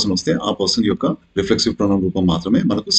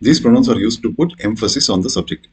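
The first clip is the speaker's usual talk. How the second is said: slow rule reading; much slower than usual. Shown as a demonstration. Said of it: "first".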